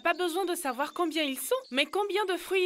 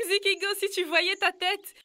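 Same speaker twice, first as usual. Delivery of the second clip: laughing teasingly; 3 semitones higher, 4 dB louder than usual. Acted. Laughing after pranking a friend.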